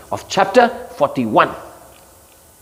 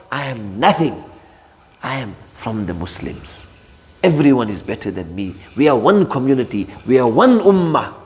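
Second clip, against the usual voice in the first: humble believer; 4 semitones lower than usual. Retold or imitated. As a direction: say it meekly. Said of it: "that's the mu'min's way".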